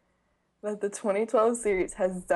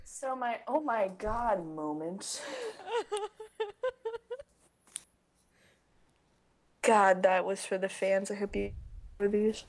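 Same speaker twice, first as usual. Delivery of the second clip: mouth burning from spicy food; 3 dB quieter than usual. Real, not acted. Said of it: "I can't feel my mouth".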